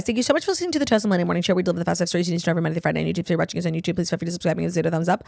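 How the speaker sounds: rattled-off outro at breakneck speed; rapid sign-off read. Real, not acted. Host thanks listeners and plugs the show, rapid-fire sign-off. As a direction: race through the boilerplate without pausing.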